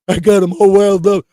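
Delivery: high, loud mocking redneck voice. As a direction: mimic the gloating southern guy, sneering. Mocking a viewer's southern voice.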